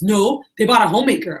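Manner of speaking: imitated annoyed protest; pissed off, retold. Upset sales rep answering the manager on the phone, imitated annoyance. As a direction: act out a mildly upset rep's retort. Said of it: "Why are you so pissed off?".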